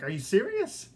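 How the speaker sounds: replaying the moment he couldn't believe the invite; stunned excitement. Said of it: "I couldn't stop saying".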